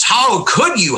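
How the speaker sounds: mock the shocked fans, pitch up; mock outrage. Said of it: "this pearl clutching".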